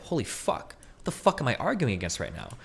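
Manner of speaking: hushed, almost whispered "what the fuck am I arguing"; stunned realization. Retold or imitated. Debater suddenly realizing the argument is absurd, hushed whisper. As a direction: catch yourself mid-debate, breathless and hushed.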